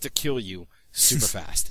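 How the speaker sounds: ordinary talk, nothing marked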